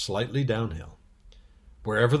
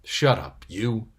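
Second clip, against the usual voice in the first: angry; 3 dB louder, slower than usual. Acted. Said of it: "who was still very angry with Edmund".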